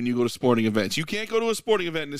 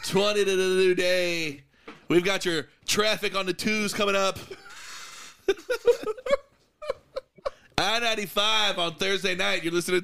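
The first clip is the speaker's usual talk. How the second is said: radio DJ voice; 4 semitones higher than usual. Pretend. Mock radio DJ time check.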